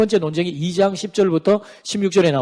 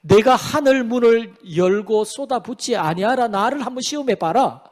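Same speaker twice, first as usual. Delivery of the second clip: God's challenge; 4 semitones higher than usual. Acted. Preacher quotes God daring the people to test him, raised proclamation. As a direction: lift the pitch and declare the dare. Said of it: "하나님이 그렇게 말씀하십니다".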